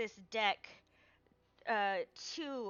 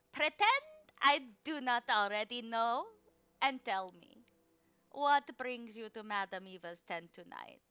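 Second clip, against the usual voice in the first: a lightly voiced old seer, a bit louder; a teasing question to the party; old fortune teller; 2 semitones higher, 6 dB louder than usual. Madame Eva voice.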